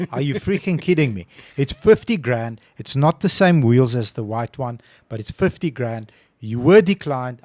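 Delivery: replaying how he lost patience, voice climbing; frustrated retold rant. Salesman ranting at a picky customer, exasperated and loud. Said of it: "I'm very freaking emotional".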